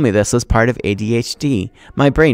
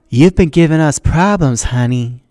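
menacing teacher; 5 semitones higher, 5 dB louder than usual. Acted. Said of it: "she said".

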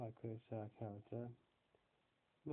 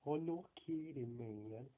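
imitating Deco; 2 semitones higher, slower than usual. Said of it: "he always says, like".

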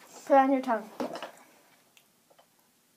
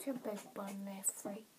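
cheeks stuffed full; 8 dB quieter than usual. Real, not acted. Marshmallows stuffed in mouth.

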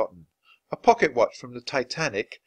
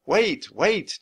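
higher, louder call to wait; 8 semitones higher, 4 dB louder than usual. Acted. Jack calling after Annie and the monkeys. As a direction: call after them as they run off. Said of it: "Jack called".

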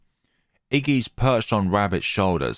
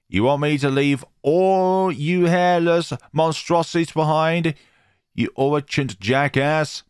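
higher, louder indignant retort, slowing at the insult; angry retort; 8 semitones higher, 4 dB louder than usual. Acted. Jerry snapping back at Gidget, loud and indignant.

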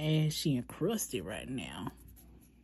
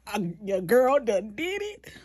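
higher, louder, slow triumphant brag; proud; 5 semitones higher, 5 dB louder than usual. Real, not acted. Bragging to viewers about her nail, proudly excited. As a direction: crow about it to the camera. Bragging after design success.

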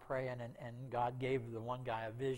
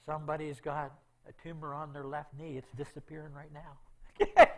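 proclaiming a healing; 2 semitones higher, 12 dB louder than usual. Retold or imitated. Worship leader proclaims healing.

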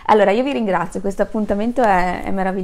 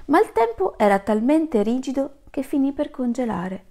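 gentle fable reading. Acted. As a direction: read the fable as if the kids are listening close. Reads a fable to children.

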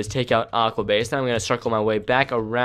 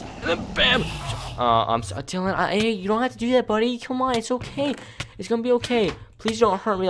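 mock pleading; 11 semitones higher than usual. Pleading with a rival player.

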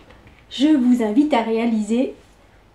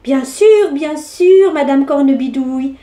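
mischievous; 4 dB louder than usual. Acted. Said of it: "répondit Pierre malicieusement".

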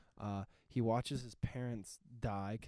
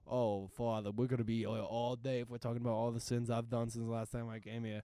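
put-on Boston accent; 3 dB louder than usual. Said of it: "in a Boston accent".

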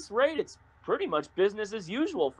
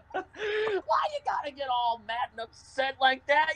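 laughing through a mock scold; cracking up while teasing; laughing mockery; 6 semitones higher than usual. Real, not acted. Teasing the driver, laughing as he scolds.

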